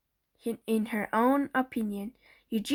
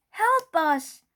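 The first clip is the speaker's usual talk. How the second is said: 1 calling for help; 6 semitones higher, 6 dB louder than usual. A narrator's reading. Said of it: "Missus Watson called".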